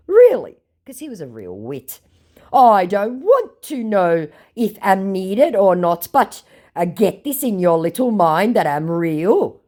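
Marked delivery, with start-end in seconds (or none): 0.1-0.6 high, loud mocking "Really?"; mocked scammer. Scammer's only comeback, high mocking voice. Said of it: "he again says". 2.5-9.6 slow, lightly put-on scammer voice; a hint of laboured, indignant English; mocked scammer. Scammer insisting he is real, lightly mocking voice. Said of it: "he again says".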